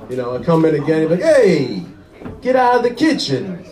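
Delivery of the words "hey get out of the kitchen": a touch more annoyed, higher dad; dad losing patience a second time; irritated Italian dad. Retold or imitated. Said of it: "the madder an Italian gets".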